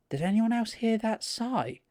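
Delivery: imitating a host, high and drawn out; slow, high-pitched mock-spooky question; spooked host. Host asking the group about a sigh, mock spooked. Acting out host's eerie question.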